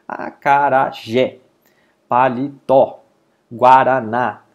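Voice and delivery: acarajé, paletó, guaraná with the last syllable punched; stress on final syllable. Shown as a demonstration. Teacher showing oxytone words, last syllable of acarajé, paletó, guaraná stressed. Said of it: "qual sílaba é mais forte".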